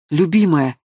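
a touch of worried excitement in a lightly changed voice; excited. A narrator's reading. Dragon greets his beloved waking up, a bit excited. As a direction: call her name, moved and anxious. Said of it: "взволнованно произнёс чёрный дракон".

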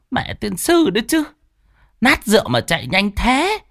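high, sputtering angry cursing; fuming curse. Acted. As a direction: curse him, stammering with rage. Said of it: "khuôn mặt hầm hầm".

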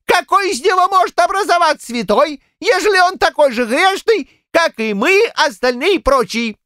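put-on high, cackly old-man voice; a fussy old grandad holding forth; high excitable village grandad; old Shchukar. A narrator's reading. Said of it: "взвился дед Щукарь и начал".

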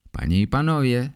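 mock award-show announcement; announcer.

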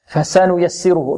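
slow Quranic recitation, every vowel given its due; full vowel measure. Shown as a demonstration. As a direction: recite فسنيسره slowly without clipping any vowel. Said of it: "نعطيها قدرها". (تلاوة متأنية بإتمام الحركات)

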